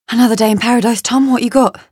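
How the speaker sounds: out of breath. Acted. Woman greets Tom on arrival, out of breath. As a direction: arrive winded and ask for the facts. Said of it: "She's out of breath".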